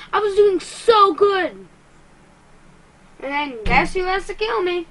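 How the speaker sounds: whiny rage. Real, not acted. Gamer complaining to viewers after dying, whiny rage. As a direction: wail it out like you're about to rage quit. Raging after being killed in game.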